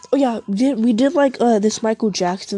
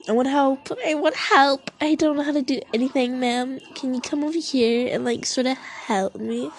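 higher, mock-needy plea for help; pretend helpless student; 4 semitones higher than usual. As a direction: play dumb to get the teacher over. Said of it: "I was like that".

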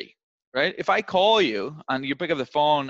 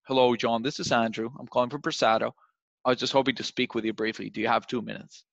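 matched calm energy. Shown as a demonstration. Rep matching a calm prospect, steady and measured. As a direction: bring it down to the prospect's level. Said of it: "you should be like".

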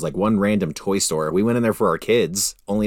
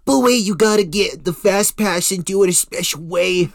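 much higher, louder sarcastic whine; mocking sales pitch; 13 semitones higher, 5 dB louder than usual. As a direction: scoff at the fast pass. Mocking theme park sales pitch.

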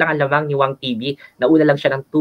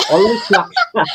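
playful swak; 6 semitones higher than usual. Acted. Playful boast, laughing.

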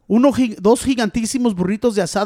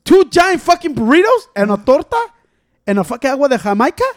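exasperated emphasis; 4 semitones higher, 4 dB louder than usual. Real, not acted. Exasperated about the huge order.

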